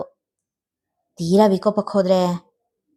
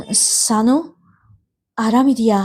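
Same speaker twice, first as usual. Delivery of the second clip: affectionate; slower than usual. A narrator's reading. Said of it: "ಆತ್ಮೀಯ ದನಿಯಲ್ಲಿ".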